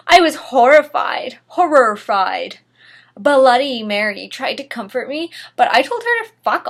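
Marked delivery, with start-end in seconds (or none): 0.1-2.6 horrified. Acted. Hammed-up horror.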